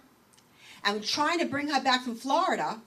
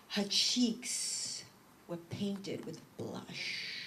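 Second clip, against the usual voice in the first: mocking newspapers; 2 semitones lower, 8 dB quieter, much slower than usual. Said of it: "they'd say".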